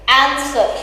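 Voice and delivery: "answer" with stress on AN; stress on first syllable. Shown as a demonstration. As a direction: lean on the AN of "answer", lighter ending. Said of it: "Stress on the word an".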